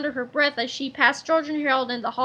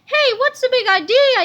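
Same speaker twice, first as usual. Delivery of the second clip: higher, louder angry yell; father yells at stranger, louder; 8 semitones higher, 7 dB louder than usual. A narrator's reading. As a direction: yell at the intruder. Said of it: "yelled Mister Sneedley".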